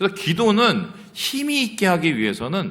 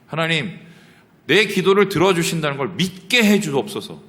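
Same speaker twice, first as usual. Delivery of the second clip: model prayer; 4 semitones higher, 4 dB louder than usual. Shown as a demonstration. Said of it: "이렇게 하나님 앞에 기도를 해야".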